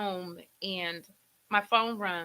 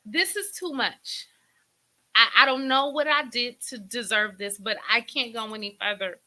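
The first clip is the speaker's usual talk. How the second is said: near-tears pleading; 3 semitones higher, 5 dB louder than usual. Retold or imitated. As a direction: plead at breaking point, pitch raised. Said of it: "Oh, I feel like crying".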